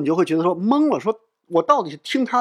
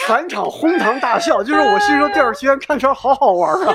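laughing; 7 semitones higher, 3 dB louder than usual. Real, not acted. Laughing while recalling the scene.

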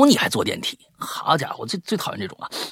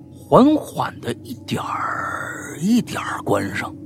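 suspenseful whisper; 3 dB quieter, much slower than usual. Acted. Suspenseful telling of stuck elevator.

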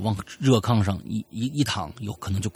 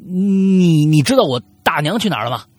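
loud, raised voice with a hesitant drawn start; insistent questioning; 4 semitones higher, 6 dB louder than usual. Acted. Nephew asks ghost where aunt went, loud and insistent. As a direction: press the question, louder and higher.

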